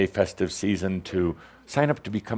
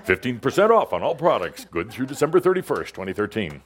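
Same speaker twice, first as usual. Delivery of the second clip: polished ad read, each phrase landed; commercial announcer voice; 3 semitones higher than usual. Shown as a demonstration. Host teased for her ad voice, smooth commercial read. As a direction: sell it like a radio spot. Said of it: "You have a very professional commercial-sounding voice".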